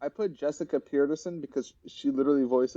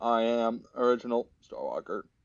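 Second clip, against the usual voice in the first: mock synthesized speech voice; 2 semitones lower than usual. Suggesting a voice for a character: Google text-to-speech voice. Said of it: "literally Google text-to-speech".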